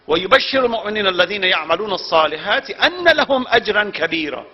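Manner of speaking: fast chanted Arabic verse; Quran recitation. Acted.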